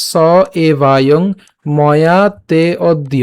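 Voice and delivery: "স এবায়ং ময়া তে অদ্য" spoken slowly word by word; careful spoken model of "এবায়ং", not sung; pronunciation demo. Shown as a demonstration. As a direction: lengthen the vowel in "ময়া". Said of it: "উচ্চারণ কেমন হচ্ছে".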